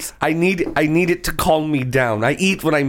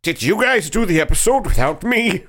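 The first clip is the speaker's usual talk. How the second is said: high yelling from afar; distant shouting; 9 semitones higher than usual. Acted. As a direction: yell after the leaving car. Shouting from outside.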